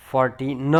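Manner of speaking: ફોર્ટીન broken as "for-tee-n"; clear final N. Shown as a demonstration. Teacher separating fourteen from forty, clear N. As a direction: sound out the end of ફોર્ટીન. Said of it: "ચૌદ છે ને એના માટે ફોર્ટીન".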